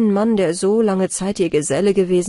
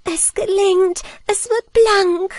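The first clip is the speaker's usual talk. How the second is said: louder, higher cry of joy, drawn out at the end; jubilant; 12 semitones higher, 4 dB louder than usual. A narrator's reading. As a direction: cheer as the stain fades. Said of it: "jubelnd rief sie".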